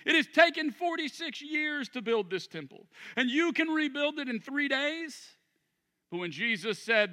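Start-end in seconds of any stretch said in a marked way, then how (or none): 0.0-5.3 incredulous. Acted. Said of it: "they exclaimed".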